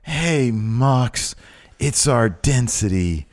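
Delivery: loose Joey Janela whisper-scream; breathy half-shouted whisper; stage whisper. Retold or imitated. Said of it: "He whisper screams".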